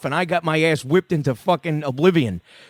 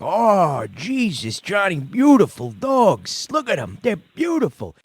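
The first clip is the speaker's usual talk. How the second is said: higher, slow doting dad voice over puppies; imitating dad cooing; 3 semitones higher, slower than usual. Dad admiring new puppies, in a higher doting voice. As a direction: coo over the puppies like a proud tough dad. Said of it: "my father's like".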